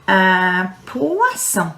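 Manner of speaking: "Un poisson" slow, with the wa sound in "poisson"; slow French word. Shown as a demonstration. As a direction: draw out "poisson" for pupils. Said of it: "Repeat after me".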